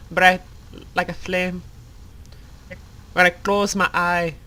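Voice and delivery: lightly voiced, halting tribute to lost family; slightly put-on character voice, with long pauses; Rosa, earnest remembrance. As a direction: remember her in short, careful phrases. Plays Rosa remembering her family.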